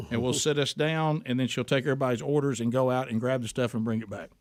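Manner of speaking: talking with a mouth full of food; words pushed around a bite of food. Real, not acted. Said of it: "don't criticize farmers with your mouth full".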